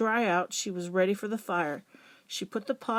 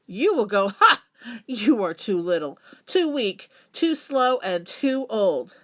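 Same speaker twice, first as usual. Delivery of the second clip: mocking laughter; 5 dB louder than usual. Animals mock grandmother.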